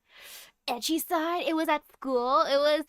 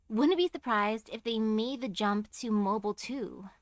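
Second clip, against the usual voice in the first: measured, slightly lowered reading voice; visual novel narration; 3 semitones lower than usual. Acted. Streamer reads the game's opening monologue aloud, measured narration. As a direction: read it out like a story narrator.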